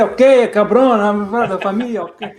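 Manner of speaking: playful burst of mock-Latino enthusiasm; excited. Guest excited about Forza Horizon five, playfully excited. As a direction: get carried away echoing the host's Spanish. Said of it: "sorry, I got excited".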